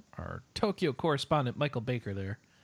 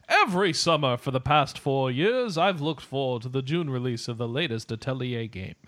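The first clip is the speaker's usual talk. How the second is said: dramatic reading. Pretend. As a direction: read it like a movie trailer. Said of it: "Just do a dramatic reading".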